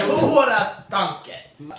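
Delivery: drawn out through laughter; laughing. Real, not acted. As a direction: laugh it out slowly. Laughing repeat.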